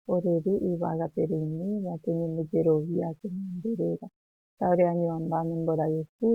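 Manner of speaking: recited prayer. Real, not acted. Teacher leads Our Father prayer.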